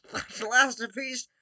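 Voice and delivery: put-on slow, high villain accent; Gru impression. Villain gloating over the piece, slow accented villain voice. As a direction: savour the words like a scheming supervillain with a foreign accent. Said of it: "this sounds more like some of the Doctor Doofenshmirtz".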